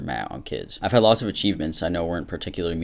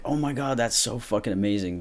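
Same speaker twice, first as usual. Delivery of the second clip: mock gushing excitement; 4 semitones higher than usual. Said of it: "you're not gonna be like".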